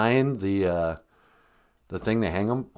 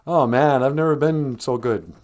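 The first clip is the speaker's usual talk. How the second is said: mock boastful, a bit louder; lightly hammed-up bragging; 3 semitones higher, 4 dB louder than usual. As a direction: rub it in with a hammed-up brag. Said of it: "it's not good to just go".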